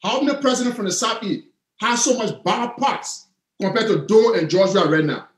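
slowed-down, spaced-out question; measured repeat with pauses between phrases; deliberate repeat. Real, not acted. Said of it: "Say that again".

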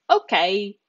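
"okay" stretched long, Italian style; drawn-out okay. Shown as a demonstration. Teacher modelling a long Italian "okay" for students. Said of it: "a bit of a drawn out okay".

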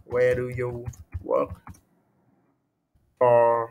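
word by word, with a long pause before "for"; halting writing-along pace; slow dictation. Shown as a demonstration. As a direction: dictate slowly while writing it out, holding back the last word. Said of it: "đây, đây em viết này".

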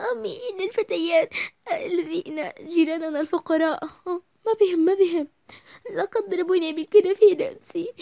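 high, teary complaint; whiny crying. Acted. Daughter complaining to mother about the boys, crying. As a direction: whine through fake tears.

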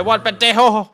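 high, loud taunting yell; mock confrontation. Gamer talking back to a growling creature, yelling. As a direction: throw it out as a loud challenge.

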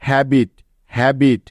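হ্যাবিট said whole, twice, with a pause between; two separate, falling takes of হ্যাবিট; blended word pronunciation. Shown as a demonstration. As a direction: model হ্যাবিট twice for learners. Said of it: "একসাথে মিলে উচ্চারণ করলে হবে".

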